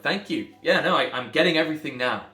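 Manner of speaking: loud, over-the-top sarcastic gratitude; mock-grateful, pointed and loud; sarcastic thanks. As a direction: thank him with biting sarcasm. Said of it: "I'm like".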